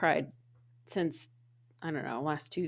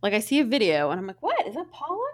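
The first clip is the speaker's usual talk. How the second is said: excited surprise; 6 semitones higher than usual. Retold or imitated. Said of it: "So I was like".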